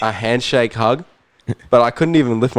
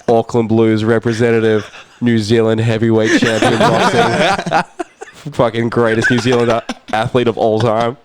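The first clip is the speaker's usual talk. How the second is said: starstruck disbelief. Retold or imitated. Sees his sporting hero.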